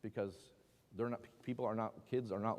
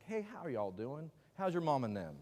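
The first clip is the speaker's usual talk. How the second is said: Southern greeting; 4 semitones higher than usual. Retold or imitated. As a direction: greet like a kind Southern neighbour. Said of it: "what you think Southern kindness is".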